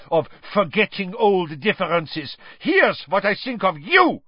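put-on bellowed, high-pitched accusation with a foreign accent; furious accented tirade; Karkaroff. A narrator's reading. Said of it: "he bellowed, pointing at Dumbledore".

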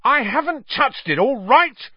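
very high, loud, angry denial; roaring back. A narrator's reading. Ron denying he took the badge, roaring back. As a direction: shout down the accusation. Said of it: "Ron roared back".

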